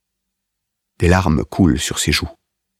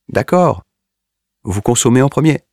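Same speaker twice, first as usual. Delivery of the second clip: hearty laughing officer; 9 semitones higher than usual. A narrator's reading. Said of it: "il se met à rire de bon cœur".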